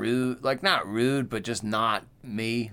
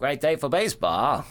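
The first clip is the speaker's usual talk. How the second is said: vintage ballpark radio announcer voice; 4 semitones higher, 3 dB louder than usual. After a friend says he misses old-time radio, doing the old-time announcer voice. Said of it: "like the old-time announcer voice".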